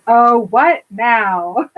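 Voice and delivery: drawn-out, exasperated groan of a question; slow, put-upon irritation; scowling annoyance. Retold or imitated. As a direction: drag each word out, fed up. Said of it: "she scowls at him and goes".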